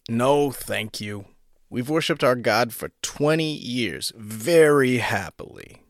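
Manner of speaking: lightly voiced weary woman, slow; a hint of a worn-out housewife politely refusing; tired woman. A narrator's reading. Gaunt woman turning away the salesman, lightly weary.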